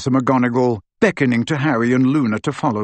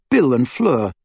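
ordinary delivery, nothing marked

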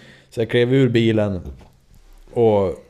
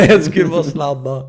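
sheepish excuse; 7 semitones higher, 8 dB louder than usual. Retold or imitated. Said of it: "Och jag bara".

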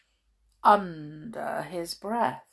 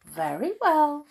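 smiling; 9 semitones higher, 5 dB louder than usual. Acted. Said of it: "smiled Wilfred".

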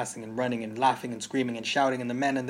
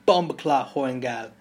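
angry curse; 2 semitones higher, 10 dB louder than usual. Acted. Father curses mother in story.

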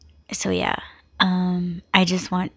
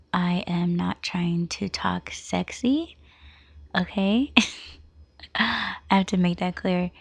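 low unhurried voice. Real, not acted. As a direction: keep it low so nobody wakes. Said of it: "I sound very low".

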